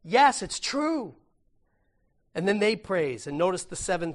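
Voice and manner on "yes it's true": higher, louder, slow amen; lightly voiced awed elders; elders' amen. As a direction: voice the elders in awe. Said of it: "they just say".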